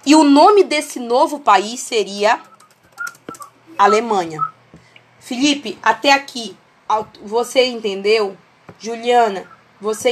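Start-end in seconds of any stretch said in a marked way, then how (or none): 0.0-4.4 slow and spaced, with long pauses between chunks. Real, not acted. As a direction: spell it out word by word for a lagging call. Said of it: "eu vou falar bem devagar". (bem devagar, com pausas longas)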